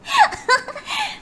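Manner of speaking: squealing laugh; high burst of laughter. Real, not acted. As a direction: break into high giggles.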